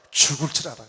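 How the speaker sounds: a low mock threat; menacing threat. God warning Abimelech, mock menacing threat. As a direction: bring the fist down on it.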